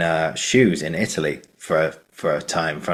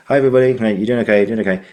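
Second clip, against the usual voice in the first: bright, louder hello to the whole set; cheery greeting; 4 semitones higher, 5 dB louder, much faster than usual. Retold or imitated. Leo greeting the crew, cheerful and loud. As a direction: greet everyone with breezy cheer. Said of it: "He goes".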